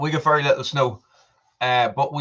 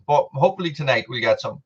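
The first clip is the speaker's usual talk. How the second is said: mouth full; faster than usual. Real, not acted. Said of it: "I'm eating popcorn".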